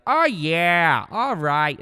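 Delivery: loud, high hyped "Oh yeah, all right"; Pauly D shout. Retold or imitated. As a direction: yell it in the stockroom for fun. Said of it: "sometimes I'd be like".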